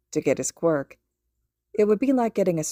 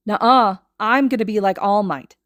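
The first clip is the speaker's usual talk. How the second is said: put-on loud, higher boastful child voice; bratty contradiction; 3 semitones higher, 7 dB louder than usual. A narrator's reading. Boy boasts back at his friend. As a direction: shut him down smugly.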